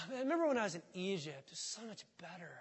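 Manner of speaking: quick wistful sigh, trailing soft; mock nostalgia. Preacher mocking Israelites, fast wistful sigh. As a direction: sigh it like a sulky complainer.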